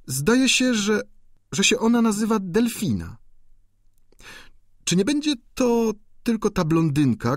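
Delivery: sly duchess. A narrator's reading. Duchess slyly corrects the student about the countess, gossiping. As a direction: drop the gossip with sly poise.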